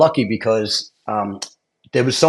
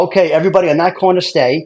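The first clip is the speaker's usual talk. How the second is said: higher voice, imitating an official's order; retold crowd instructions; 6 semitones higher, 4 dB louder than usual. Official sorting test takers on corners, retold announcement. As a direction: address a crowd, mildly raised.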